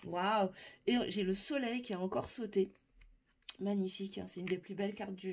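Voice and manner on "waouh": laughing wow. Real, not acted. Card jumps out unexpectedly.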